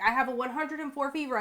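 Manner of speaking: high, mock whiny excuse. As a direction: whine it like a lame excuse. Mocking her own lame excuses.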